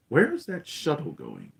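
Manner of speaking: slow, measured question; Vader, altered intonation. Retold or imitated. Vader asks about the shuttle, deliberate intonation. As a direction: draw the question out, lightly in character. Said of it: "the intonation in his voice is different".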